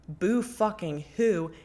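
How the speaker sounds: slow, sarcastic boo fucking who; a hint of sassy contempt for the ex; sarcastic dismissal. Real, not acted. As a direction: drag it out mockingly.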